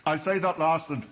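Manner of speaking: talking with a mouthful; words round a bite of biscuit; mouth full. Real, not acted. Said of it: "I'm eating on T V".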